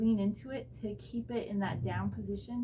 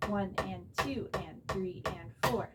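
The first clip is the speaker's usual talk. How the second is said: counting out loud; 2 semitones lower, slower than usual. Shown as a demonstration. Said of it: "first time all full strokes".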